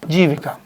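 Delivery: आजीविका split as आ, long pause, जीविका; sounded out in parts. Shown as a demonstration. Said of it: "उसके बाद". (आजीविका को तोड़कर, रुककर)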